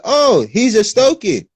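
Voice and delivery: high, slow teasing tone; mocking voice. Mocking someone from Stoke in a snooty voice. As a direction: tease him like a snooty local. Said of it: "That's how they'll make fun of you".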